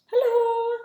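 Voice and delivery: high, loud sing-song hello; excited hello. Real, not acted. Cook greeting sister-in-law Kim on the livestream, high bright hello. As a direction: greet her like a long-lost friend.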